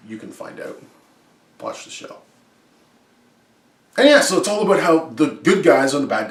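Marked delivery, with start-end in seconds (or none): 0.1-2.2 secretive teasing whisper. Acted.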